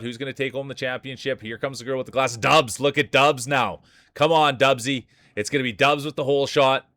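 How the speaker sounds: energetic play-by-play, rising into the finish; live race commentary. Acted. Streamer calling the marble race for chat, excited play-by-play. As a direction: call the race as it happens.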